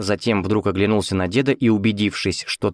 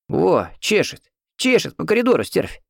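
put-on grumbling old man; 10 semitones higher than usual. A narrator's reading. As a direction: grumble at the nurse coming down the hall. Old man hears nurse coming. (высокое ворчание старика)

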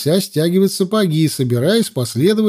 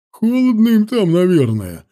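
lightly jeering soldier's call, starting high and falling; amused exclamation; 4 semitones higher than usual. A narrator's reading. Guard jokes about the swimming girls, amused exclamation. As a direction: exclaim with a touch of mirth. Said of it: "со смехом воскликнул кто-то из стражей".

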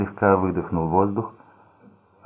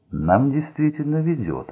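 gleeful; 8 semitones higher than usual. A narrator's reading. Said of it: "обрадовался он".

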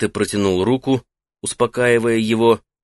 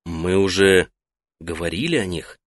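gentle; 4 semitones lower than usual. Acted. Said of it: "мягко напомнил Соэ".

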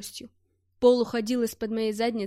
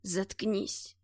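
strained, squeezed out; 3 semitones lower, 6 dB quieter than usual. A narrator's reading. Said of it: "вымученно выдавил из себя Глушков".

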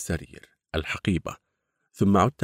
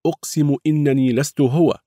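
pleading; 8 semitones higher, 6 dB louder than usual. Acted. Pleading denial again.

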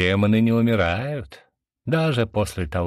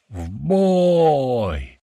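loud rallying call to battle; thunderous battle cry; 5 semitones higher, 4 dB louder than usual. A narrator's reading. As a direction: bellow the charge, high and loud. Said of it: "громогласно провозгласил я".

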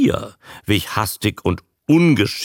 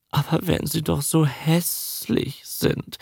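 higher, softer protest forced out; blurted out; 7 semitones higher, 5 dB quieter than usual. A narrator's reading. Woman protesting that the sea gods are ugly, blurted. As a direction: push the objection out. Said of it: "stieß Lee hervor".

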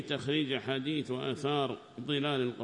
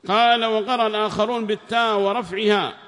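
reading the book aloud, raised and formal; loud text reading; 8 semitones higher, 12 dB louder than usual. Acted. Student reads the tafsir aloud to the sheikh, raised and formal. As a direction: read the passage out to the class, loudly.

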